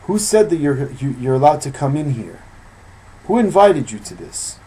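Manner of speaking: a hint of an angry rabbi; stern rebuke. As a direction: scold the uninvited guest. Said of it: "he says".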